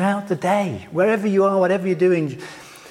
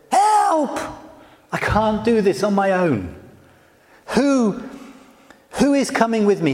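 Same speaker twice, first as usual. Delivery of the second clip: panicked plea; 3 semitones higher than usual. Retold or imitated. Moses facing the vast crowd, crying out in mock panic. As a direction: act out Moses gasping for help. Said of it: "is having a panic".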